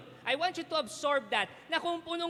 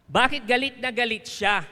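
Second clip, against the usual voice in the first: asking again, much louder; louder repeat; 3 semitones lower, 6 dB louder than usual. Shown as a demonstration. Preacher repeating the question to the congregation, louder. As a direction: push the question out to the crowd. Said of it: "repeat louder".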